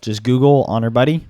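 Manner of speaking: hoarse, worn-out voice; losing voice. Real, not acted. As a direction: speak with a voice that's giving out. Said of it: "I'm losing my voice right now".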